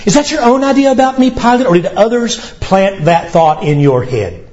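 quick, bold counter-question; Jesus questioning Pilate. Acted. Preacher voicing Jesus turning the question on Pilate, bold. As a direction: turn the question back on him. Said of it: "begins to question them".

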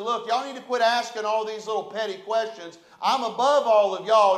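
loud, cocky boast to the congregation; swaggering leader showing off to the church; boastful brag. Retold or imitated. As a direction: puff up and brag like you're above them all. Preacher voices arrogant church leader.

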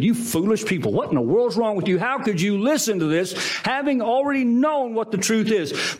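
mildly heated scolding; quick, indignant questioning, lightly acted; Paul's anger. Letter writer to Galatians who were misled, mildly angry scolding. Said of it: "you could hear anger in Paul's voice".

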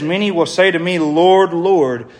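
preacher stressing the repeated Lord; emphatic repetition. Real, not acted. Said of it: "If you wanted to emphasize something".

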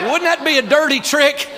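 laughing through a prank joke. Real, not acted. Preacher laughing at his own prank idea to the congregation, laughing. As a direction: chuckle out the punchline, real laugh. Joking about blackout prank.

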